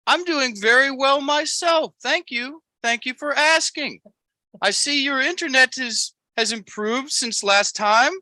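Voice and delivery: very high-pitched, polite Amish caricature; hammed-up Amish small talk, way up high; Amos, Amish impersonation. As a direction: make small talk in a squeaky put-on Amish voice. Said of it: "your Amos Amish impersonation".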